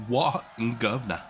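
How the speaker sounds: light, half-hearted attempt at Cockney; bad Cockney accent. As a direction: have a feeble go at a Cockney greeting. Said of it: "I even suck at a Cockney accent".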